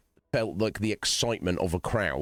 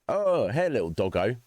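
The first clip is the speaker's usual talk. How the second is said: mock jolly Santa; 3 semitones higher than usual. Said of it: "Santa'd be like".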